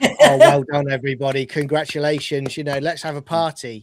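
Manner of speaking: loud, laughing mock cheer of congratulation; laughing sarcastic well-done cheer. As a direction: ham up everyone applauding a coming-out. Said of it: "and everyone goes".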